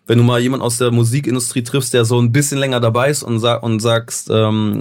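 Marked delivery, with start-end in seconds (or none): none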